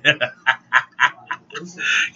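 long staccato laugh. Real, not acted. Laughing at own joke to viewers, staccato cackle. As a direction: laugh in a steady run of short bursts. Laughs after joking it's okay.

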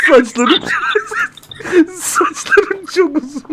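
high, slow, breaking with laughter; laughing, near tears. Real, not acted. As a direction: force the words out through laughter. Embarrassed over dream confession.

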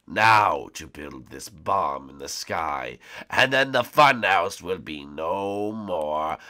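low, slow villain voice; dark lord. Acted. Villain plots.

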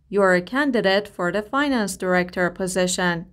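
a little slow and careful; slow model reading. Shown as a demonstration. Teacher reading a sentence clearly for the class. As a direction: read it out clearly for learners. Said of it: "teacher models the line".

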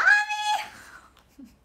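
very high, loud shriek of laughter; screaming with laughter. Real, not acted. Laughing outburst at friend.

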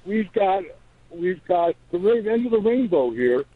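high, delighted mock voice on "Oh"; mock gleeful legislature. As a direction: play the lawmakers spotting free money, gleefully. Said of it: "the legislature said".

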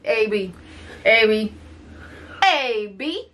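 insistent, teasing name call; drawn-out call, rising at the end. Real, not acted. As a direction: stretch the name out as a nagging call. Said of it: "Stop yelling".

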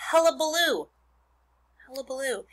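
hullabaloo sung out high and bouncy; playful word demo. Shown as a demonstration. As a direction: savor the silly word hullabaloo. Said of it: "this silly word".

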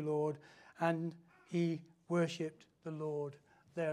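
loud, measured scripture reading. Acted. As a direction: proclaim the verse slowly, easing off at the end. Reads scripture to congregation.

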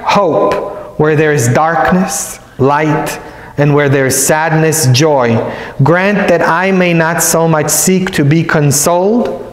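measured, devout reading of a prayer; solemn recited prayer; prayer recitation. Acted. Recites prayer of Saint Francis.

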